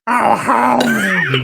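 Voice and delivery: high, loud little whoop. Shown as a demonstration. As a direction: pitch it up and push it out. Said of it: "little, little higher pitch".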